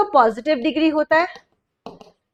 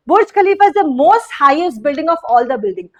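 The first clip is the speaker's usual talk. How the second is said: slow wrong example; much slower than usual. Shown as a demonstration. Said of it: "most highest building नहीं हो सकता".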